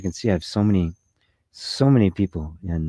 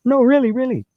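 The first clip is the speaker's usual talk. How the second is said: high, loud insistent plea; desperate pleading; 6 dB louder than usual. Retold or imitated. Pleading with someone who won't listen, high loud insistence. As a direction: push it up, begging them to believe you.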